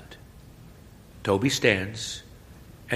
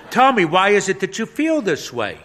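priest's question; 11 semitones higher, 9 dB louder than usual. Acted.

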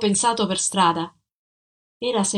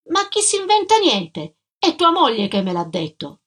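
sharp, much higher indignant burst; irritated retort; 5 semitones higher than usual. Acted. Old doorkeeper to accusing tenant, irritated and indignant. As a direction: snap back, offended at the accusation. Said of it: "Irritata rispose subito".

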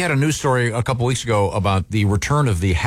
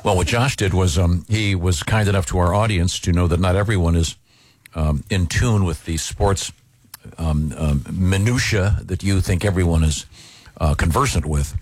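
condescending; 4 semitones lower than usual. Real, not acted. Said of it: "You talk like such a jerk".

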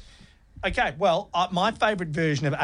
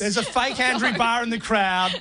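high, amused exclamation; excited discovery; 7 semitones higher than usual. Real, not acted. Host telling co-hosts who is in the fake crowd, excited. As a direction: point it out with delighted disbelief.

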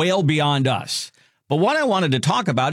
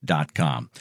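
slow repeated web address; 5 semitones lower, much slower than usual. Acted. Repeated slowly for listeners.

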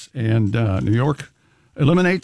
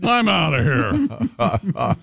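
slow, drawn-out gruff bear voice; a bear stomping off in a huff; much slower than usual. Acted. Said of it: "That's a bear voice".

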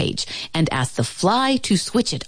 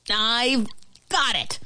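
higher, understated eureka; exclaiming ant; 7 semitones higher, 3 dB quieter, slower than usual. A narrator's reading. Ant announcing an idea to roommates, exclaiming. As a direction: raise the pitch on a sudden idea. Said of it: "exclaimed the ant".

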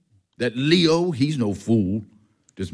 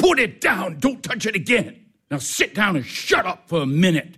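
raised-pitch, exasperated command; angry order; 5 semitones higher than usual. Acted. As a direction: order the nephew to behave. Uncle orders nephew off box.

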